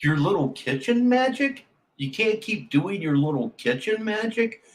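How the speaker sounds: disbelieving repeat of the phrase; incredulous. Real, not acted. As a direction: say it back like you can't believe it. Repeating the streamer's line in disbelief.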